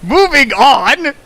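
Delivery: high, slow, loud sing-song; mock-grand announcement; hammed-up moving on. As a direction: drag it out for comic effect. Mocking echo of co-host.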